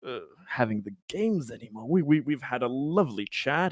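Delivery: hesitant, casual cover-up; spinning it reassuringly. Acted. Conrad spinning the bad news to Simone, falsely reassuring. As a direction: put an innocent spin on it. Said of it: "he's trying to spin this".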